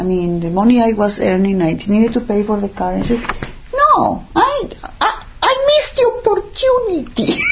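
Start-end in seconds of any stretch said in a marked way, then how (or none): 3.7-7.5 high, laughing lament; high rueful laugh over the words; rueful laughing cry. Real, not acted. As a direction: laugh at your own loss. Rueful self-talk with laugh.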